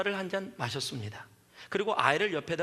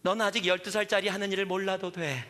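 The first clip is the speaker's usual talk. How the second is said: laughing retelling. Retold or imitated. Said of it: "탁 쳐다보면서 그러더래요".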